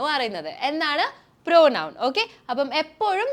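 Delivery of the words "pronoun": "pronoun" said louder, punched as the answer; emphatic answer. Shown as a demonstration. Teacher answering her own question for students, loud and emphatic. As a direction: drill the answer home for the class.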